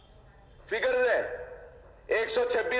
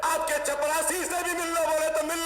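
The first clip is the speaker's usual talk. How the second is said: raised voice; 4 semitones higher than usual. Real, not acted. Heated assembly speech.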